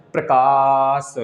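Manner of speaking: प्रकाश drawn out syllable by syllable; slow prakash. Shown as a demonstration. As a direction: stretch प्रकाश slowly with long gaps. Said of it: "प्र और क के बीच में लंबा समय".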